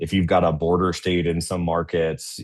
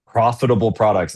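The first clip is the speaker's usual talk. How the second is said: "Profitable" hit louder and falling, then "products"; stress on profitable; 3 semitones higher, 5 dB louder than usual. Shown as a demonstration. Presenter stressing "Profitable" to retail buyers, loud and falling. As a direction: lean hard on "Profitable", let it fall. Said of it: "I just can't emphasize the word profitable".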